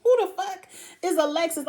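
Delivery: a viewer yelling at the screen in disbelief, mock outraged; mock outraged shout. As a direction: shout it like you can't believe her. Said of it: "I'm like".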